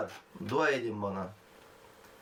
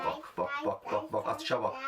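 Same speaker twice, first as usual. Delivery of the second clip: hushed urging whisper; 10 semitones lower, 6 dB quieter than usual. Real, not acted. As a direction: hiss it out very softly. Whispering during the throw. (fısıltıyla)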